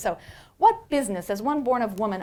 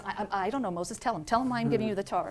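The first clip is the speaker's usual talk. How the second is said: befuddled God; faster than usual. Acted. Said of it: "befuddled and tongue-tied".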